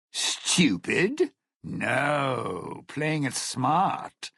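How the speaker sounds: stung, incredulous question; indignant retort. Acted. Retort to an insult.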